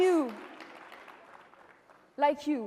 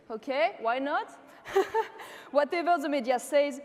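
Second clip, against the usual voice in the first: laughing. Real, not acted. Mocking the media labels.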